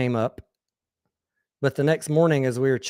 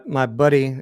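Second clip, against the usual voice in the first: usual speaking voice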